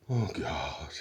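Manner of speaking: whispered despairing mutter. A narrator's reading. Ford slumped at the bulkhead, whispered mutter. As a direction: breathe it out in despair. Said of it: "muttered Ford".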